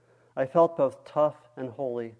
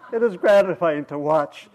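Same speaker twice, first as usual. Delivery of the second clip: put-on chuckling old man; 2 semitones higher, 3 dB louder than usual. Old man chuckles telling story.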